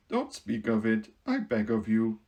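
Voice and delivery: gentle, modest Tin Woodman. Acted. Woodman brushing off the mouse's thanks, modestly.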